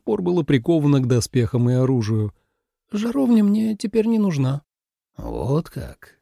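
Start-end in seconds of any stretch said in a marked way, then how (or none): 2.9-4.6 put-on a young woman's voice. A narrator's reading. Суэлань говорит, голос персонажа. 5.2-6.2 gloomy. A narrator's reading. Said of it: "помрачнев ещё больше".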